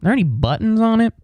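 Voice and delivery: dopey wonder voice. Retold or imitated. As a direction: ask like a dazzled monkey. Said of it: "just, like".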